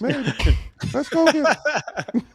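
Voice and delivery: slow, high Southern twang; southern accent. Pretend. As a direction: drawl it out like a Texan. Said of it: "I like your southern accent".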